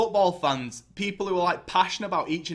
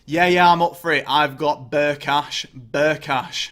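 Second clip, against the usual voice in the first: a hint of a loud cocky chancer, slow on the name; mock owner voice; 6 dB louder, slower than usual. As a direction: lightly play a dodgy buyer, brash and slow. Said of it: "turns up and goes".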